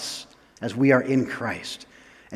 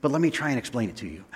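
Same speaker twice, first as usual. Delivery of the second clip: Paul. Retold or imitated. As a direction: act out gushing awe, then hurry into the explanation. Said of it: "you can imagine Paul saying".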